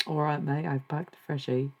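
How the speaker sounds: badly faked Australian accent; Australian accent attempt. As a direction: imitate a matey Australian, not very convincingly. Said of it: "How do Australians say packed?".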